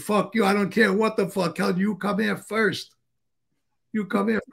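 hammed-up cursing at the late man; imitating an angry boss. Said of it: "John fucking Blair says".

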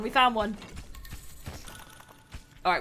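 ordinary delivery

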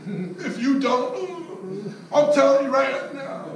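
high, slow, laughing wheeze of a feeble threat; old customer out of breath warning the rep, mock feeble; breathless mock threat. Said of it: "they're running out of breath".

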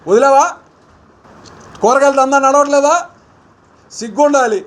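heated jabbing challenge at a rival; angry taunt. Real, not acted. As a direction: throw the questions at him in anger. Politician taunting MLA over market graft.

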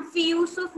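"फी यूसुफ" run together with a short "फी"; wrong merged reading. Shown as a demonstration. Teacher shows students the wrong joined reading. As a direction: clip "फी" and fuse it into "यूसुफ". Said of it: "नहीं पढ़ेंगे".

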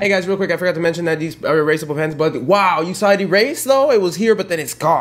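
hammed-up YouTuber announcement, fast; mocking the host. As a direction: parody an overexcited host, rushing.

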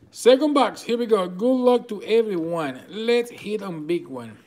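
loud, high, pumped-up call to open the next box; rally the viewers with big energy; excited hype. Real, not acted. Hyping the next box opening.

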